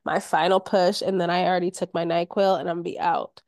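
hoarse and croaky from covid; sick hoarse voice. Real, not acted. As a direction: talk through a sick, croaky throat. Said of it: "I sound like a toad today".

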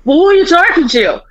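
playfully indignant comeback; mock indignant retort. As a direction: fire back like a bickering wife. Retold mom retorts in the quarrel.

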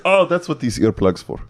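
mock realizing Bond. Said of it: "He's like".

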